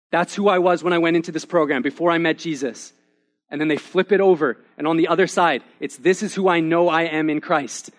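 preacher building conviction; emphatic preaching. Acted. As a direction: proclaim each word to the congregation. Preaches the testimonies with force.

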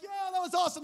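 high, loud whoop of delight; triumphant cheer. Retold or imitated. Out on the other side, exultant. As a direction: celebrate like thrilled survivors.

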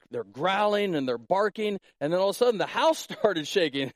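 ordinary talk, nothing marked

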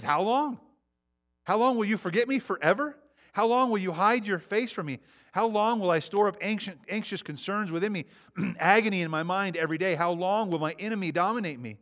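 an anguished psalmist pleading with God; pleading cry. Retold or imitated. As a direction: cry out how long to God. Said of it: "it's a plea".

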